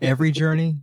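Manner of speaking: quick, questioning echo dissolving into laughter; incredulous laughter. Real, not acted. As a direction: repeat the joke while cracking up. Cracking up at co-host's joke.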